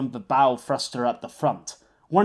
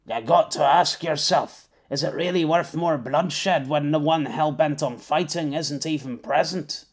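gravelly pirate. Acted. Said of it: "sounding like a proper pirate with that gravelly voice".

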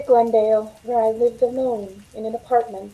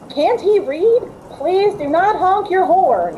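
higher, louder, irritated jab; annoyed; 7 semitones higher, 3 dB louder, slower than usual. Acted. Waitress fumes at a driver honking his horn, irritated.

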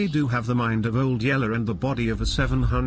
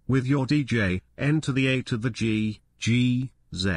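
radio DJ voice. Acted. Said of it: "radio bit continues".

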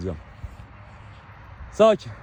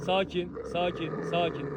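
soft, slow calming of dogs; soothing; 10 dB quieter than usual. Real, not acted. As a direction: settle the animals gently and slowly. (alçak sesle yavaşça yatıştırma)

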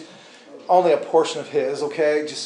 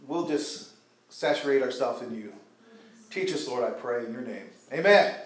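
prayer. Acted. Preacher leading the congregation to pray, earnest prayer.

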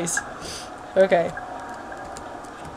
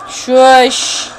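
sharp shush; 3 semitones higher, 7 dB louder than usual. Real, not acted. Telling the speaker to hush.

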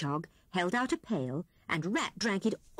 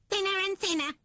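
a mild, higher moan; sorry-for-himself lament, lightly done; 12 semitones higher, faster than usual. Acted. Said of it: "moaned Rat".

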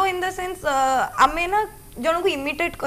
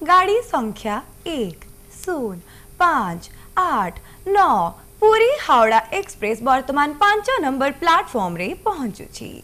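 echoing train announcement. Shown as a demonstration. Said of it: "ଆପଣଙ୍କଠୁ ନିହାତି ଭାବରେ ଶୁଣିବାକୁ ଚାହିଁବା".

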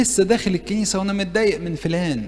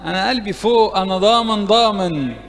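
higher and louder, cocky boasting; mock overconfidence; 5 semitones higher, 4 dB louder than usual. Priest mocking a cocky prayer to God, boastful and loud. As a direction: play a boastful worshipper bragging to God. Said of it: "مش هقول له".

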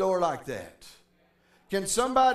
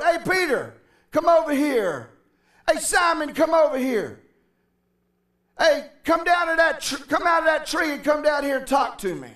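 calling across the water, higher and louder; 5 semitones higher, 3 dB louder than usual. Retold or imitated. Jesus calling Peter over from the boat, loud call. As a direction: hail them from a distance.

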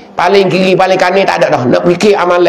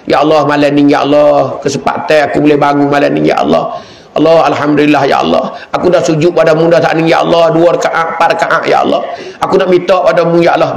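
low, earnest prayer voice; praying to God; 3 semitones lower than usual. Retold or imitated. Worshipper rising at night prays to God, earnestly. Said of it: "kecek dengan Tuhan".

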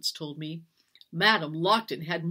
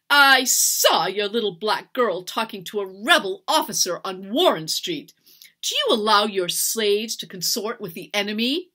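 loud, raised accusing voice; higher, scandalized retelling; indignant mimicry; 4 semitones higher, 8 dB louder than usual. A narrator's reading. Mistress quotes gossip in anger.

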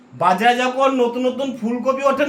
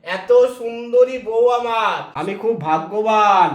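slow, lingering lovestruck gush; slow doting; 2 semitones lower, slower than usual. Acted. Husband dotes on his beautiful wife, very slowly. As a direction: savour every word for your wife.

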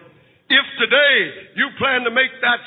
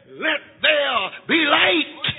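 God's command shout; 4 semitones higher, much slower than usual. Acted. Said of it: "he shouted to nothing".

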